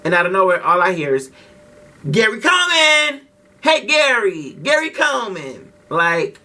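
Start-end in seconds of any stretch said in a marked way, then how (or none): 2.1-5.7 high, jeering schoolkid taunt; mock taunting. Bullies taunting him from the bus seats, jeering and high. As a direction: call out a mocking nickname.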